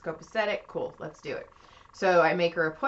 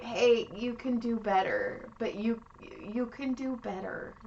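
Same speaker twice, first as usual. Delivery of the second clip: gentle warning; 4 semitones higher, 3 dB quieter than usual. Retold or imitated. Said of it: "I can't be like".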